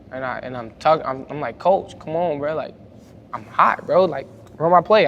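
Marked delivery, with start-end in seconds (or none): 1.6-5.0 rising, louder urgent plea; pleading with coach. Retold or imitated. Player begging his coach mid-game to run his play, urgent and pleading. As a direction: push the coach, voice climbing.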